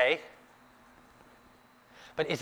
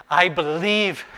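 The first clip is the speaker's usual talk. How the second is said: crying out; 5 semitones higher, 6 dB louder, slower than usual. Acted. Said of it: "cried out and said".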